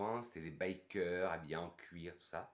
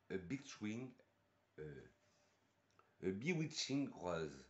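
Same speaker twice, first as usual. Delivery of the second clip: slow English with a French accent. Real, not acted. Reviewer reading the rose perfume's English blurb, slow French-accented English. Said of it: "mon superbe accent anglais depuis le début".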